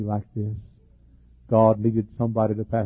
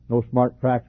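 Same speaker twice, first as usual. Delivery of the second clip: slow, chuckling no smart cracks; amused, louder aside through a laugh; 4 dB louder, slower than usual. Real, not acted. Laughs while repeating a joke.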